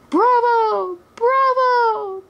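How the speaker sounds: high, delighted cries of bravo, climbing each time; overjoyed cheering. A narrator's reading. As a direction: cheer as if your hero just won. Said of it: "cried Maid Marian overjoyed".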